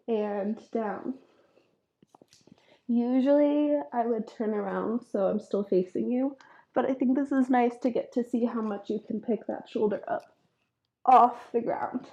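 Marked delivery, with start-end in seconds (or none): 2.9-12.1 blocked nose from a sinus infection; stuffy nose. Real, not acted. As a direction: talk through a stuffed-up nose. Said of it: "I'm a little bit stuffy here".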